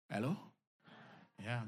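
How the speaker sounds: ordinary talk, nothing marked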